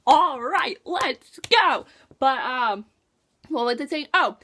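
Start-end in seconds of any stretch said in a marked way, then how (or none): 0.1-1.9 louder, hyped up; rally like your team just showed up; excited little cheer; pumped cheer. Retold or imitated. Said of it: "I was just like".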